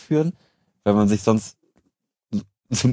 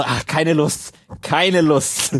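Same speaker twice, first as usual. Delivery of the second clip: higher, drawn-out sigh of no interest; sulky can't-be-bothered voice; bored Jan Böhmermann; 6 semitones higher, much slower than usual. Retold or imitated. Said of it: "quasi so".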